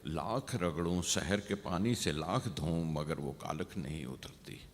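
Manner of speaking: spaced-out verse, line by line with pauses; poem recitation. Acted. Poet reads diary lines on night's blackness, measured recitation. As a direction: recite in measured phrases, dropping at each close.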